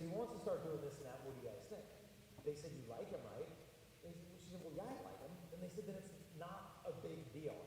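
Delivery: hushed, intimate preaching voice; soft sermon. Acted. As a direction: draw them in, quietly earnest.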